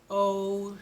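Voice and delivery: Ocean with the hidden sh stressed; careful ocean. Shown as a demonstration. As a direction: bring out the sh in Ocean. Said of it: "that sound has our sh sound in it".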